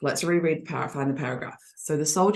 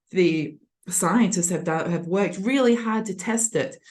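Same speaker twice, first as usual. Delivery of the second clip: defensive. Shown as a demonstration. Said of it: "If it was defensive".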